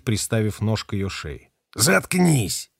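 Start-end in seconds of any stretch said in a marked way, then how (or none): 1.7-2.7 sharp barked shut up; barked order. A narrator's reading. Kella barking at Bait to shut up, sharply. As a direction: bark him into silence. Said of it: "рявкнул Келла".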